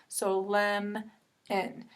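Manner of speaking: "lem" clipped with short e; short vowel in lem. Shown as a demonstration. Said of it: "going to be a short vowel".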